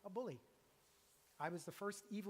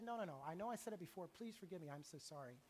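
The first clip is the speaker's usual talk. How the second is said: softer and softer, pleading; a touch of remorse; 2 semitones lower, 6 dB quieter than usual. Retold or imitated. Pastor retelling his apology to his brother, fading and remorseful. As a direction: let the apology fade to near nothing.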